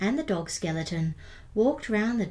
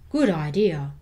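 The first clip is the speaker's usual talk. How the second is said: louder, hearty big skeleton voice; 3 semitones lower, 6 dB louder than usual. Acted. Big skeleton agreeing with the little one, loud and hearty. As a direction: boom it out agreeably. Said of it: "the big skeleton said".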